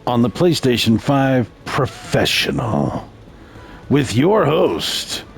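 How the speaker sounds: slow, drawn-out host welcome; deliberate game-show style introduction; show announcer intro. Acted. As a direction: announce the show with measured, stretched words.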